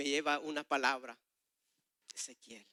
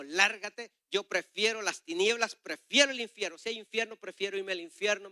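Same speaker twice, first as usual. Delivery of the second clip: defiant rejection; 4 semitones higher, 3 dB louder than usual. Retold or imitated. Retold angry rejection of Christ.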